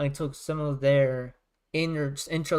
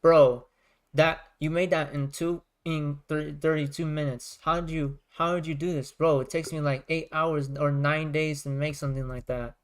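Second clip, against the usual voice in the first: imitating the guy. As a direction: lightly mimic a friend's astonished rant. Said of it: "He spoke like this".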